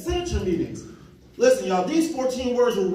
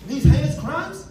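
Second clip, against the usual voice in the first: incredulous. Retold or imitated. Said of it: "I said".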